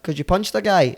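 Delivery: high mock-stern policeman. Policeman telling Billy he's wanted, mock stern. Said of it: "And he went".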